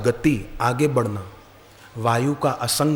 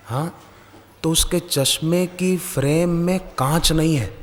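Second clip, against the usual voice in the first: put-on child's voice; 4 semitones higher than usual. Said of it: "अचानक बेटे ने कहा".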